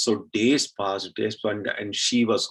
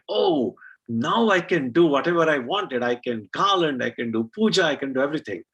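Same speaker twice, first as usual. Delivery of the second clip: happy delight; 4 semitones higher than usual. Acted. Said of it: "and she was so happy".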